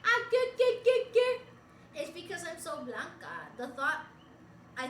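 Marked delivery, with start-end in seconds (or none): 0.0-1.4 loud, high, repetitive caricature voice; Manny Boy. Retold or imitated. Streamer imitating how a friend talks, mock squawk. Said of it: "He just talks like this".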